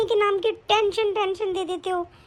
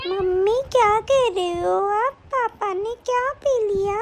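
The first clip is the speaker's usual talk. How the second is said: put-on slow, lightly childlike questioning; a child's drawn-out puzzled question; little daughter; slower than usual. Daughter asks mother what papa drank, lightly voiced child.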